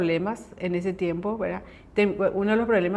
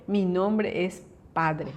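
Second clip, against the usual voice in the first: God's gentle reply; 3 semitones lower, 4 dB quieter, much slower than usual. Retold or imitated. God answers her in prayer.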